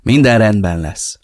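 mildly soothing comfort; calm him down gently; reassuring. Acted. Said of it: "nyugtatott meg". (megnyugtatóan)

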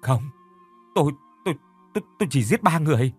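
high, fast, stammering denial; panicked stammer. A narrator's reading. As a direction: stutter in terror, voice climbing. Panicked stuttering denial to police.

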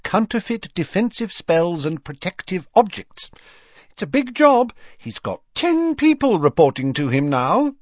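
brisk, chatty mother of the house; motherly witch voice. A narrator's reading. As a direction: talk like a proud busy mum. Mrs Weasley voiced in audiobook.

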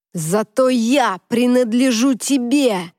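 slow, heavy, intense declaration; intense slow outburst. Acted. Travis leans over her bed, slow and intense. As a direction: lean in and press every word.

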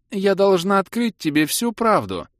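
высокий протяжный голос, театральная растроганность; признавайся медленно, с наигранной слезой; слезливое признание. A narrator's reading. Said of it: "утерев набежавшую слезу". (слезливо и торжественно)

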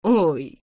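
short acted cry of pain. A narrator's reading. Injured rider tries to stand up, pained cry. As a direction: let out a restrained, pained "oy". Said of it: "это движение вызвало у него болезненное".

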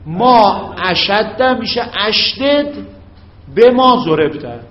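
drawn out, rising at اشدد; slow dictation. Shown as a demonstration. Teacher dictating to students, slow and clear. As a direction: dictate slowly so they copy it. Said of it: "یا بگو".

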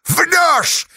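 high sharp cry; shouted denial. A narrator's reading. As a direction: hurl it back at him. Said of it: "закричала Сташа".

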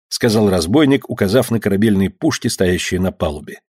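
ordinary delivery, nothing marked

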